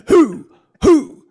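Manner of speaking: loud high barked whoops; dog-bark whoop. Pretend. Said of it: "hit the dog a little".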